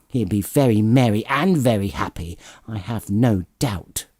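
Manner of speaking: toast him through clenched teeth; wife drinking the toast grudgingly. Acted.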